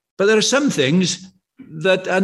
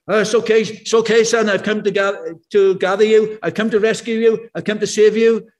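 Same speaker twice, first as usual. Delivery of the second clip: officer reassuring. Retold or imitated. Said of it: "an officer bursts in and says".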